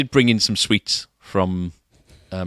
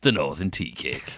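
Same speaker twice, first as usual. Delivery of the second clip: put-on northern accent; 5 semitones lower than usual. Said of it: "I'll do it in a northern accent".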